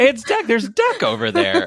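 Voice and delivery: mock excited, very high, laughing kid voice.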